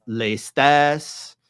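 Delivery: "lestes" as lay-STASS, open vowel in the stressed last syllable; older pronunciation. Shown as a demonstration. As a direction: say "lestes" slowly, lay-STHESS, stress at the end. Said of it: "it started out maybe as".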